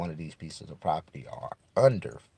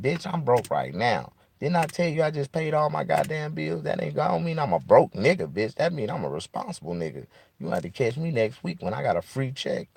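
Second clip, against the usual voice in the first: higher and louder, a hammed-up indignant comeback; mock angry retort; 8 semitones higher, 3 dB louder than usual. He fires back at the lady who called him broke, in mock fury. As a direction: snap back at her, playing it up offended. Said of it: "I'm like".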